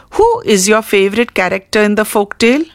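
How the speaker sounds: quick model question, lifting at the end on tale; rising question intonation. Shown as a demonstration. Teacher models a who question for the class, brisk with a rising end. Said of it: "and the question would be like".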